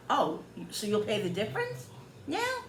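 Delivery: questioning, leaping high at the end; surprised realization. Retold or imitated. Customer retells grasping the seller's offer, surprised. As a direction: check it as the penny drops.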